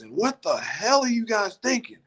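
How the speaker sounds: imitating the coach, voice jumping high; high-pitched coach. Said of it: "his voice gets high".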